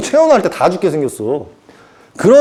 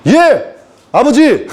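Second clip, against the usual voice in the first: high, slow, obedient angel voice; drawn-out high yes, Father; eager angel reply; 6 semitones higher, much slower than usual. Acted. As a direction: answer God like a dutiful angel. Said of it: "이랬다고".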